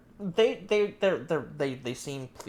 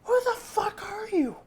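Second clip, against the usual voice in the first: stammering shock. Acted. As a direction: voice jumps way up in a stammered outburst. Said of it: "like, stammers".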